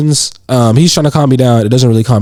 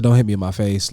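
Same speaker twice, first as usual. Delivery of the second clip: low, level warning; calm retold warning, no heat; calm objection; 6 semitones lower than usual. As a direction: state the boundary calmly, pitched down. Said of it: "I was very calm".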